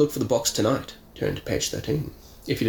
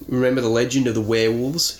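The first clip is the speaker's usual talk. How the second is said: mysterious. Acted. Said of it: "Sharky is saying mysteriously".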